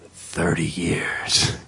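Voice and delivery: breathy whispered verdict, very low; hushed sentence. Retold or imitated. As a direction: let the verdict drop to a whisper.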